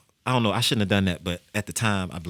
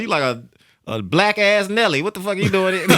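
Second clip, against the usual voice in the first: hammed-up mocking high voice; laughing tease; 11 semitones higher, 6 dB louder than usual. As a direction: rib him while cracking up. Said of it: "He's like".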